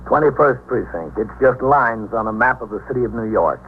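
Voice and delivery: grave narrator; radio narration. A narrator's reading. Captain describing his precinct to listeners, grave. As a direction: speak like a captain telling his beat.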